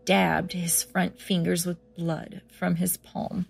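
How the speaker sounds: steady storyteller narration; story narration. A narrator's reading. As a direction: read it like a creepy tale. Reads horror story aloud.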